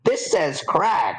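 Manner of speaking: slow, high character voice; puzzled note reader. Acted. Reader puzzles over Crag and Craig, high slow voice. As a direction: read aloud high and slow, then query it.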